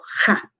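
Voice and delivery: "Ja" with a strong J from inside; "Ja", a forceful throaty J; strong deep-throated J. Shown as a demonstration. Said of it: "una J más fuerte que sale desde adentro".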